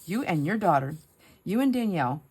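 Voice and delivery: pointed, playful reproach; mock scolding. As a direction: imitate an exasperated husband. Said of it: "we talk like, like this".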